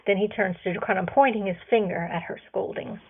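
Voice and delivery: ordinary delivery, nothing marked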